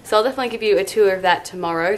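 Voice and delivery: talking with a retainer in; slightly lisped retainer speech; wearing a retainer. Real, not acted. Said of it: "Sorry, I sound a bit crazy".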